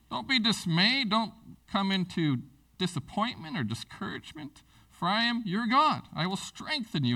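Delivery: lifted, earnest reading of the verse; fervent scripture reading. Acted. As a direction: read it as God's promise. Reads scripture aloud.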